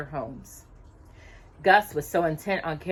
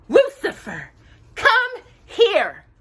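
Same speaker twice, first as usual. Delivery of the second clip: sharp, louder, impatient call at the cat; impatient hiss; 13 semitones higher, 6 dB louder, slower than usual. A narrator's reading. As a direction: snap at the lazy cat, losing patience. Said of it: "Cinderella hissed impatiently".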